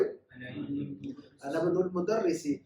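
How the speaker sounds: very slow अना इब्नुल मुदर्रिसी; slow model phrase. Shown as a demonstration. Teacher slowly models the sentence for Ammar. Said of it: "क्या कहेंगे हम अमर भाई?".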